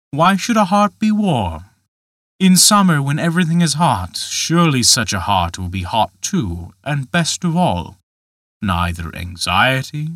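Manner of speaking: a lightly voiced giant gently mocking; understated tempter, reasoning with the boy; Dutch Michael, coaxing. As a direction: coax him like a sly tempter.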